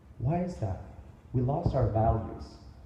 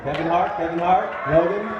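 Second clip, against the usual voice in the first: hype shout-out; 5 semitones higher, 7 dB louder than usual. Real, not acted. Calling out names to crowd.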